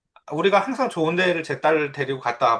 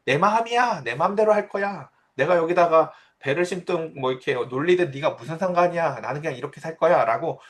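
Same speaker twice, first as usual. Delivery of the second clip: mock defiant claim; 2 semitones higher than usual. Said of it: "소유하고 외치라고".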